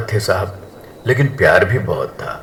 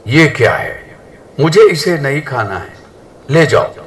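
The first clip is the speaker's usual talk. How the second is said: angry; 5 semitones higher than usual. Acted. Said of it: "सास गुस्से में".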